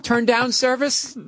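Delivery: hotel maid call. Retold or imitated. Hotel staff knocking as guest falls asleep, mock service call. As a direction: lightly sing it out, slow and high.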